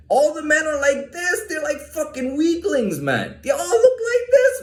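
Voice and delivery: high, laughing mockery, voice breaking into laughter; laughing while mocking. Real, not acted. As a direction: laugh through the insult. Mocking Pakistani men, laughing.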